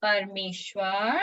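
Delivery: slow, stretched words with lifted endings; slowly, for repeating. Shown as a demonstration. Teacher leads children repeating the memory verse, slowly. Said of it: "मैं धीरे धीरे बोलूंगी".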